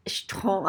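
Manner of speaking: "Stron" with the consonants jammed together, no vowel between; crammed consonant cluster. Shown as a demonstration. Teacher trying the word without its E, cramming the consonants. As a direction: attempt "Stron" as one awkward syllable. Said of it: "try and pronounce A C H T R".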